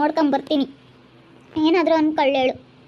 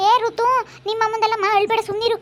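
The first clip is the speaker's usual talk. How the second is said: higher-pitched coaxing; hushing a child; 5 semitones higher than usual. Acted. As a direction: raise the voice to hush a crying child. (ಅಳುವ ಮಗುವನ್ನು ಸುಮ್ಮನಿರಿಸುವ ದನಿ)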